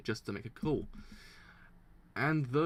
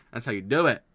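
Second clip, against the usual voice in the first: hyped; 10 dB louder, faster than usual. Real, not acted. Streamer still hyped.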